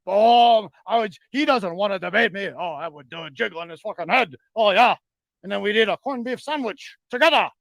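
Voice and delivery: a lightly done, mixed-up fake Irish accent, mocking. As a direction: taunt him in a hammed-up but mild Irish brogue with a fake cackle. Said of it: "What am I, one of those German, Russian, Australian, Canadian, Irish people?".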